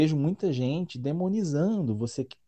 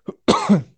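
sudden loud choking cough; choked on air; 5 semitones higher, 10 dB louder than usual. Real, not acted. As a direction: cough hard as if air went down wrong.

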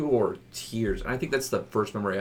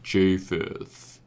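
hoarse voice. Real, not acted. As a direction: talk through a worn-out voice. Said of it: "my voice is going to be deeper".

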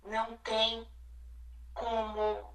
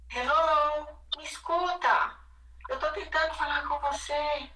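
voicing the body; 5 semitones higher than usual. The body voiced as speaking.

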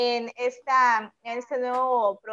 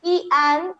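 "an" punched louder and higher; stress on an; 5 semitones higher, 7 dB louder than usual. Shown as a demonstration. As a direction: hit the word "an" hard. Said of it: "porque empieza con un sonido de vocal". ("an" marcado, más alto y más fuerte)

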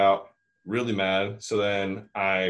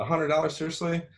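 incredulous outrage; 8 semitones higher than usual. Retold or imitated. Telling a friend about the locksmith's price, climbing incredulous outrage. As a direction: pitch climbing high in disbelief.

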